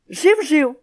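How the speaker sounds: high, loud plaintive cheep-cheep; pleading, near tears. A narrator's reading. Plucked parrot begs the sparrows, near tears. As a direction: beg them to stop, almost crying. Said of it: "мало не плачучи, попрохав папуга".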